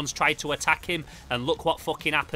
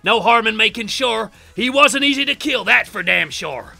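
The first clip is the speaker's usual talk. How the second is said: hammed-up Southern family villain; 3 semitones higher, 6 dB louder than usual. Voices the family characters.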